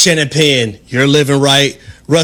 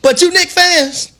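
mock sermon; 4 semitones higher than usual. Host preaching to Knicks fans from the pulpit, playful sermon.

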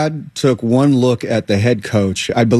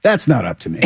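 accepting; 2 semitones lower, faster than usual. Acted. Stepdad leaving the decision to others, accepting. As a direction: simply give in, no fight. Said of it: "he's accepted, like".

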